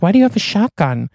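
high and fast alarm; panicked question about the shotgun. Retold or imitated. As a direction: blurt it out in a rush.

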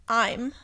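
"I'm" in her own pronunciation. Shown as a demonstration. Confessing how she says it, her own "I'm". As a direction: say "I'm" as one contracted syllable. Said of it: "I also say".

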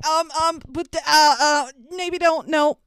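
a dad trying to stop his wife, half laughing; nervous dad. Retold or imitated. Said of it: "And the dad's like".

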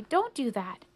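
put-on upset old lady.

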